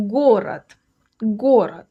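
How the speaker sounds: город ending in a voiceless T; final D as T. Shown as a demonstration. Teacher modelling the word for city, город ending with a T sound. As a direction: say город as GO-rat, devoicing the last consonant. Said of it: "the D at the end sounds like T".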